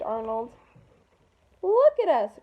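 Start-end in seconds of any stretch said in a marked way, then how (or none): 1.6-2.4 louder and higher, dismayed; crying out. Acted. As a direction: blurt it out in alarm. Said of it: "cried Wanda".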